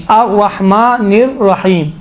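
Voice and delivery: الرحمن الرحیم slow, with long vowels and a full stop; measured recitation, pausing after الرحیم; stopping at verse end. Shown as a demonstration. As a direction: draw out الرحیم and halt. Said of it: "رکتے جائیں".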